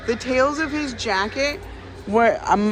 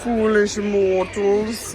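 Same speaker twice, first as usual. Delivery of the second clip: dark lord; 5 dB louder, much slower than usual. Pretend. Repeats sign slowly, spookily.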